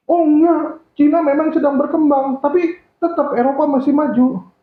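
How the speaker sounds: high-pitched, insistent disagreement; acted know-better objection, pitched well up; contradicting client. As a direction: play a client who must win the point.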